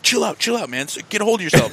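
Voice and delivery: hushed, urgent settle-down; imitated calming friend. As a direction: voice a friend quietly reining in a panicker. Friend calming him, holding his hand.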